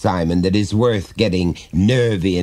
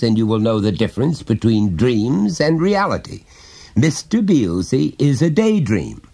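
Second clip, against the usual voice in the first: lightly voiced father, higher and coaxing; a hint of a chummy dad prying gently; jovial father; 7 semitones higher, 3 dB louder than usual. Father coaxing his small son to confide, lightly voiced.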